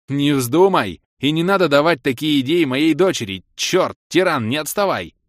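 high, loud, urgent shouting; alarmed scolding. A narrator's reading. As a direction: forbid it loudly, then holler at the straggler. Father scolds, then yells at pet.

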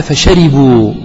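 "فشربوا" said as fashaRIbuu with i on the ra; ra with kasra. Shown as a demonstration. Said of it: "بكسر الراء".

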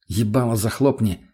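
ordinary delivery, nothing marked

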